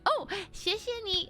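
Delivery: high, surprised thanks; taken aback. Retold or imitated. Customer startled by the bank man's Chinese, taken aback. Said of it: "I was very taken aback".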